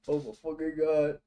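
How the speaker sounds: usual speaking voice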